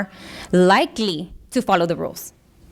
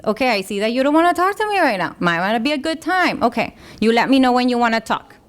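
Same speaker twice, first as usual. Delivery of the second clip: put-on validating teen; 2 semitones higher, faster than usual. Shown as a demonstration. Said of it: "validate their feelings".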